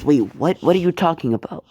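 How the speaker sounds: startled mother hearing her son is leaving; shocked mother. Acted. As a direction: blurt it in disbelief.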